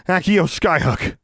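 high, drawn-out spell cry; commanding incantation. A narrator's reading. Heroine summons the hook with her wand, commanding cry.

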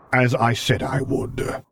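slow, calm and unhurried; settled calm, taking his time; calm voice of a patient guardian; placid. Acted. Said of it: "Vader agreed placidly".

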